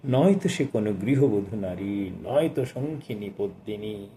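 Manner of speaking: slow, measured poetry reading with lingering lines; poem recitation. Acted. Reviewer reciting the poet's sonnet to listeners, slow and lyrical. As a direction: recite it like a sonnet to a hushed hall.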